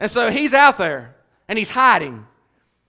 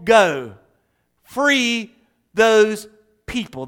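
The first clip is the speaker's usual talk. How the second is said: loud, commanding God voice; booming divine command; 4 semitones higher, 4 dB louder than usual. Acted. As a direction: declare the mission like thunder. God's commission voiced.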